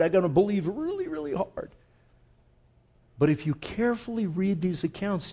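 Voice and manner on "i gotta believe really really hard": quick, then rising high on the last words; mock effort, squeezing out belief; straining to believe. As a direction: act out trying too hard. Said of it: "we're really trying to believe hard".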